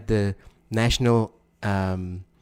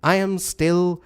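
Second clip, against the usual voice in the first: mock dictator accent, slow and higher; Robert Mugabe; 5 semitones higher than usual. Co-host quotes the leader's reply, dictator accent. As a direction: declaim it in a put-on African dictator accent. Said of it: "he responded to that".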